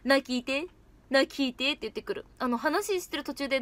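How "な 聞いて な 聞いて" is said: lightly voiced Osaka-dialect な、聞いて; a hint of Ran's Kansai nagging; Osaka impression. Imitating Ran in Osaka dialect for the members, lightly. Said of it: "ランちゃんのモノマネはできるよ".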